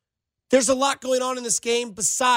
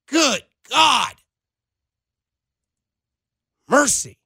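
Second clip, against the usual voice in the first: fed-up plea; 4 semitones higher than usual. Real, not acted. Host telling the angry texter to enjoy life, exasperated. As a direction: vent at the texter to lighten up.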